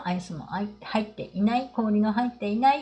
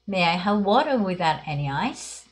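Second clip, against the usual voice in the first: slow model reading; slower than usual. Shown as a demonstration. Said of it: "じゃあ上の三つ読んでみましょう".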